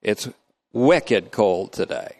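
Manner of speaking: slow, drawn-out Vermont wicked cold today; Vermont accent. Shown as a demonstration. Teacher demoing Vermont small talk, slow light Vermont accent. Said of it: "you have to say it kinda like that".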